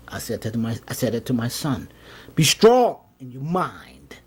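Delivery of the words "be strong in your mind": slow, partly whispered urging; intense half-whisper. Retold or imitated. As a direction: urge it slowly, breath over voice. Fatherly advice, partly whispered.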